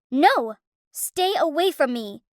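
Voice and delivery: yelling. Acted. Girl yelling at the stranger grabbing her, a mild mock yell. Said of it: "I yelled at them".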